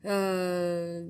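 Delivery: "uh" drawn out as a French "euh"; French hesitation sound. Shown as a demonstration. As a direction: hold "uh" like a French pause filler. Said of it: "the French have a sound for their pauses".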